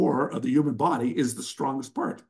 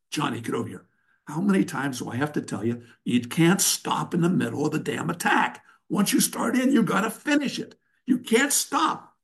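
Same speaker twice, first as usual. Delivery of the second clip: mock coach yelling. Coach scolding Johnny for stopping mid-attack, mock yell. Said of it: "now you're yelling at him".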